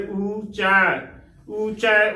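ਉੱਚਾ with both vowels held full; ਉੱਚਾ said as a full-vowelled "oo-chaa". Shown as a demonstration. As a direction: give both vowels of ਉੱਚਾ their whole length. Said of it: "ਦੋਵੇਂ ਮਾਤਰਾਵਾਂ ਨੂੰ ਭਰ ਕੇ ਬੋਲਣਾ ਹੈ".

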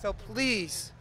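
drawn-out voice-over plea; mock pleading. Host begs viewers for a guitarist, mock-earnest pleading. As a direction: beg like a charity appeal.

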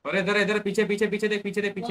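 loud, high urgent callouts; urgent shout. Real, not acted. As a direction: shout the warning fast. Urgent callouts during a fight.

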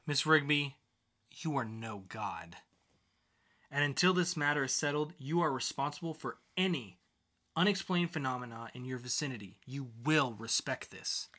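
a hint of a stern judge, measured. Judge warning the defendant, mild sternness.

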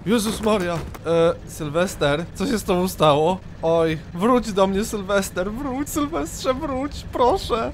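high, wailing plea, rising as it goes; distraught pleading. Pretend. Player begging lost friend Sylwester to return, distraught pleading. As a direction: beg him desperately to come back.

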